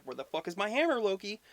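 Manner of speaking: a hammed-up furious Thor; angry Thor. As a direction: demand it high and heated. Thor demands his hammer.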